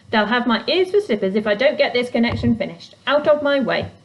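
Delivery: gruff, busy goblin; grumpy goblin voice. Acted. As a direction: brush her off grumpily. Fletch's voice.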